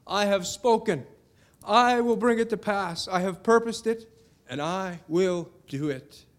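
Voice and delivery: rising to a loud, high proclamation; proclaiming God's words. Acted. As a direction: declare it with mounting power, as God speaking. God's declaration read out.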